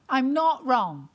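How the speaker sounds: slow "I'm not wrong" with every word weighed; slow emphatic repeat. Shown as a demonstration. Comedian to audience, slow emphatic repeat. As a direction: lean on "not" and draw it out. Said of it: "repeats it slower for emphasis".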